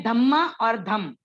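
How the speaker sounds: धम्म with a held double म, then धम short; slow contrast of धम्म and धम; double vs single म. Shown as a demonstration. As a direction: hold the म in धम्म, clip धम. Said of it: "double word का meaning".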